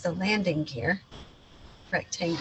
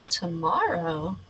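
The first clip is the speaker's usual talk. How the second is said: playful pirate captain; slower than usual. Acted. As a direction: announce the new hero dreamily. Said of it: "boy imagines pirate role".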